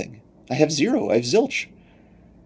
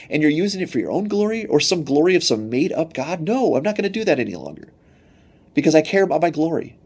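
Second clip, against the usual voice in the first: higher, emphatic voice of God saying no; God turning his people down, pitched up and firm; stern God refusing; 5 semitones higher than usual. Acted. Preacher voicing God to faithless Israel, higher and stern. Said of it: "And God basically says".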